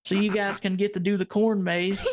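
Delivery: lightly imitated Southern owner; Southern accent. Owner sends visitors to the maze, in a Southern accent. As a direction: wrap up like a Southern host. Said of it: "He talked like this".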